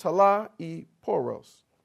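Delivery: talaiporos with the middle syllable emphasized. Teaching a word's pronunciation, says it with stress on middle syllable of talaiporos. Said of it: "the emphasis is on the middle syllable".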